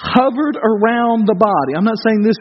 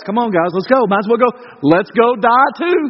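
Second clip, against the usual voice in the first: dry, weary sarcasm that slows on "die too"; sarcastic. Retold or imitated. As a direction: roll your eyes and shrug it off. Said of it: "this is a sarcastic response from Thomas".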